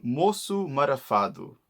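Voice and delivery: "moço marafado" with both final vowels sounded; "moço marafado" with clear end vowels; full vowels. Shown as a demonstration. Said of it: "a very common phrase in the Algarve saying".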